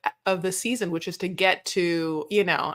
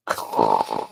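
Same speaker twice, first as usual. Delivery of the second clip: mock cooing boo. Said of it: "she's like".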